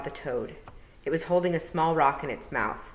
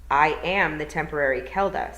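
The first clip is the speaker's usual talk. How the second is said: stiff; 6 dB louder than usual. Acted. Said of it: "said Tiffany stiffly".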